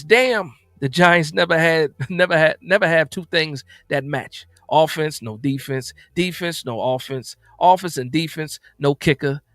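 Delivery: light movie-comedy character voice, punchy opening Damn; a hint of comic impression, amused; Smokey impression. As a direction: lightly impersonate a comic film character, phrase by phrase. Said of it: "He says, in my smoky voice".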